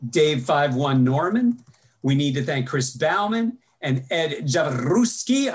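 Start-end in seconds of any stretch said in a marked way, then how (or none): 2.0-5.5 Javaruski with a rolled R. Shown as a demonstration. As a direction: roll the R in Javaruski. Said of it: "I rolled the R 'cause".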